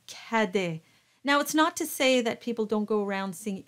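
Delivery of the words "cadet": cadet with a forward A as in tap; open A. Shown as a demonstration. Teacher contrasting it with trois, cadet with open A. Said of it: "slightly darker than how you would pronounce".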